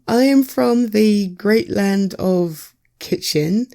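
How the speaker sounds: a hint of a slow, proud herald turtle; grand turtle messenger. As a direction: announce yourself like a pompous little turtle. Turtle repeats its line.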